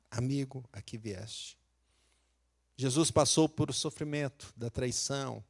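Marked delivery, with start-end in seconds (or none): 0.1-1.6 much softer, sinking low; softer repeat. Retold or imitated. Jesus repeats the greeting to Judas, much softer. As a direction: drop almost to a hush. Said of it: "Ele fala assim com ele".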